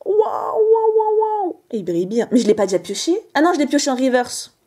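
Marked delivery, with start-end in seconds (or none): 0.1-1.6 higher wow of wonder; gasping at the shiny card; amazed. Real, not acted. Pulling a holographic card. (émerveillement, plus aigu)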